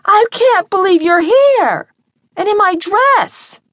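put-on high, loud, slow drunken squeal; slurred drunk girl. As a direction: gush like a tipsy best friend. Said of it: "loud, girlish, slurred voice".

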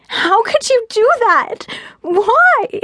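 high-pitched, upset yell; furious outcry. A narrator's reading. Fiona pounds on Gabe's chest, furious outcry. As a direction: cry out high in fury. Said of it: "Still furious".

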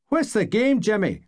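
high, angry challenge. Acted. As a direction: demand an answer, furious. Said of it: "only angry".

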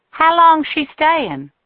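high, slow nosy waitress voice; curious woman. A narrator's reading. Earlene asks, high and slow.

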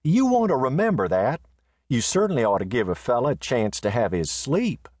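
high, easy grumble; Riata, drowsy and unbothered; sleepy indifference. Acted. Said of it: "said Riata".

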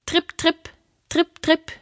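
high, little tripping steps; light tripping hoofsteps. A narrator's reading. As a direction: make tiny hooves trip across in a high voice. Light hoofsteps of smallest goat. (hohes, leichtes Getrippel)

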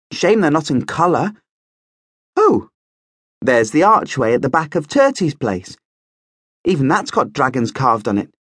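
put-on brisk, bright young man; lively young prince. A narrator's reading. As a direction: play the eager young prince. Marcus voiced.

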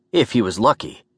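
ordinary delivery, nothing marked

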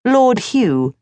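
usual speaking voice

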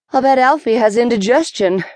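breathless gasp. Acted. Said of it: "Potts gasped into the comm".

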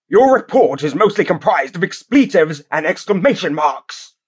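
sneering judge, pitched well up; disgusted snarl. A narrator's reading. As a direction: spit the words out with contempt. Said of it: "the judge snarled with a disgusted sneer".

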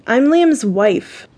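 slow, deliberate emphasis landing on "wife"; stress on wife. A narrator's reading. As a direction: lean pointedly on the word "wife". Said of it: "I emphasize the last word".

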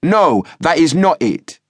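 high, loud, slow bellow. A narrator's reading. Youth matching the sergeant's shouting, bellowing. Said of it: "he bellowed".

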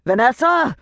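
high, loud angry yell of a name; irate shout. A narrator's reading. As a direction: bellow it from the back office. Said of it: "came an irate shout".

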